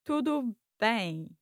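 "tudo bem" slowly with a big smile; slow, smiling learner's "tudo bem". Shown as a demonstration. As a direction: stretch "bem" through a wide smile. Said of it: "With a big smile".

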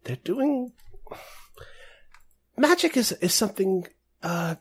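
slow, halting in-character confidence; leaning in to confide. Acted. Woman leans in about metamorphosist folks, lightly voiced confiding. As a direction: share a distasteful rumour, picking words slowly. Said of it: "she leans in and she says".

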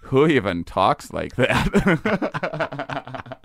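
imitating mom's Fargo accent; lightly voiced upper Midwest accent; Minnesota accent. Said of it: "make her talk about Fargo".

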